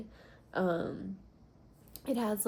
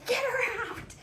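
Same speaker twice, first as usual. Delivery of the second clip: much higher, louder laughing mock squeal; 4 dB louder than usual. Woman retelling spotting her cat under the bed, laughing high squeal. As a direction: retell the moment you spotted her, giggling. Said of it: "And I was like".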